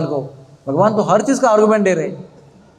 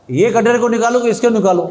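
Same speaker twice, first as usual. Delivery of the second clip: higher, louder shout from the treetop; loud calling out; 6 semitones higher, 3 dB louder than usual. Acted. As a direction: call the question out loud in the dark. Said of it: "तो फिर जोर से बोल रहे हो".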